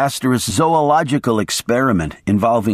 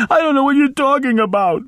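put-on high old woman's voice; pleading old maid; 14 semitones higher, faster than usual. A narrator's reading. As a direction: insist in a high frightened voice.

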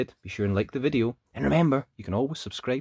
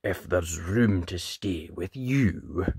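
slow, mildly tearful dragon; sniffing dragon; 5 semitones lower than usual. A narrator's reading. Lonely dragon asking for a home, lightly tearful voice. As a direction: ask timidly, drawing it out. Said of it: "sniffed the dragon".

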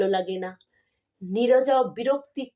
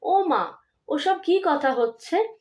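gentle, affectionate pleading with mother, a little higher; coaxing tenderly; 3 semitones higher than usual. Acted. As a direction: soothe a sick mother like a child. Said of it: "আদরের সুরে বলে".

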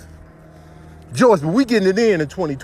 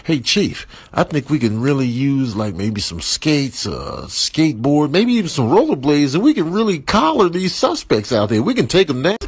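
a lightly voiced lazy cop, lower and lazy; 5 semitones lower than usual. Comic lazy cop asking the police chief for skates. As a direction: mumble it like a slacker cop. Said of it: "lazy, flat-footed cop put in a request".

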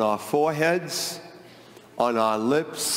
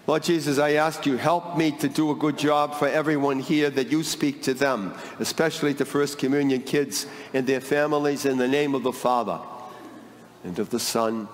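prayer; faster than usual. Real, not acted. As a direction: pray it quickly, then settle into the blessing. Priest's opening prayer.

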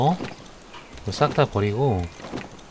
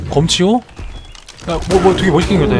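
awed; 7 semitones higher, 7 dB louder than usual. Real, not acted. Awed by sabertooth.

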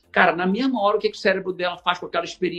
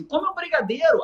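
tempting voice; 9 semitones higher than usual. Retold or imitated. Voicing tempting inner voice.

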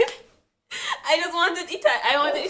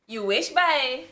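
put-on Caribbean accent; 3 semitones higher, 6 dB louder, much slower than usual.

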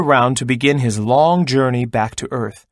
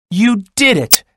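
bright, higher, louder cheer; excited exclamation; 7 semitones higher, 4 dB louder than usual. A narrator's reading. Owl cheering Crow after the snow melts, excited. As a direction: burst out with joy at the win. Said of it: "exclaimed Owl".

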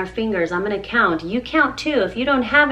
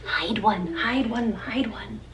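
soft fading cue; 3 semitones lower, 7 dB quieter than usual. Acted. Song cue to hide finger.

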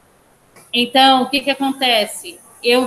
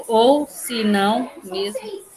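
counting out syllables; slower than usual. Shown as a demonstration. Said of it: "Não, um, dois, três, quatro".

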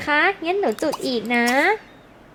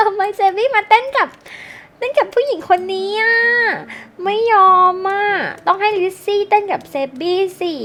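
higher, louder, whiny objection; jealous protest; 5 semitones higher, 4 dB louder than usual. Acted. Player protesting Sebby dancing with another girl, higher and louder. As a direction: sulk and refuse it out loud.

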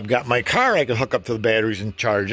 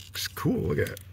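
whisper; 8 semitones higher, 8 dB quieter than usual. Real, not acted. Showing off the clear silicone.

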